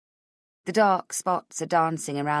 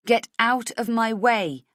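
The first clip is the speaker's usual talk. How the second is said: slow and louder, deliberate; slow demand; 5 semitones higher, 4 dB louder than usual. Acted. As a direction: push each word out. Heroine, faltering.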